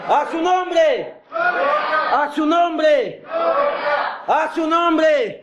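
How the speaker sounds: slow drawn-out shout, voice laughing; calling out. Real, not acted. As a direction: call it out long to the crowd. Preacher calling out to congregation.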